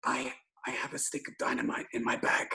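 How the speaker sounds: hushed retold whisper; secretive half-whisper. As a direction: lean in and whisper it. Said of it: "and whispers in my ear".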